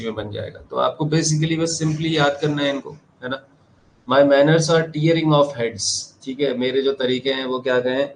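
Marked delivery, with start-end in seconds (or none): 4.1-5.8 slow quotation. Shown as a demonstration. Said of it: "बहुत ही खतरनाक line है".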